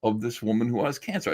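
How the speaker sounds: hushed mock indignation; mock outraged critic. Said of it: "everybody said".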